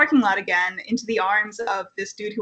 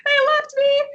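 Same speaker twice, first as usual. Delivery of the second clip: high, breathy whimper fading out; whimpering whisper. Retold or imitated. Camper trailing off after bawling to the camp mom, whimpering whisper. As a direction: let the sob die into a whisper. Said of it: "And I'm like".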